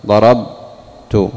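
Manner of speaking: ضربت drawn out slowly, the ب held still before the ت; slow demo word. Shown as a demonstration. Teacher showing students how ضربت sounds, drawn out slowly. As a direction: spell out ضربت slowly so the sukun is heard. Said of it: "عند أن اتصلت التاء بها ماذا قلت؟".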